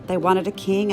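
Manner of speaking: usual speaking voice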